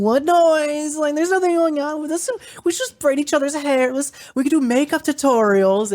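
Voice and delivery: very high, put-on girly chatter; mock innocent cover-up. Host distracting guests from banging upstairs, high mock-innocent voice. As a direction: imitate a nervous host frantically changing the subject. Nervous Lara covers up the noise.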